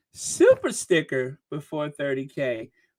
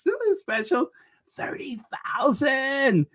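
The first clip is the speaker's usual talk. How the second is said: celebratory announcement; 6 semitones higher than usual. Real, not acted. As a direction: stretch it out high in celebration. Announces milestone special.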